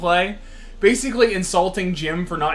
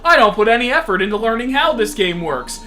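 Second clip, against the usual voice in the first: higher mocking sneer; mock him in a taunting voice; mocking insult voice; 4 semitones higher than usual. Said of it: "Most of these comments were".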